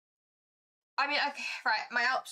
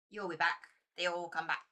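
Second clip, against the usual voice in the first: low, knowing and a little sinister; a hint of a spooky cult warning; ominous lodge voice; 5 semitones lower than usual. The lodge warns the player who declined, lightly menacing.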